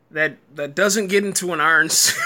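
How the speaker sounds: shouting through laughter; half-shouting while cracking up; can't keep a straight face; laughing. Real, not acted. Laughing at the show's premise.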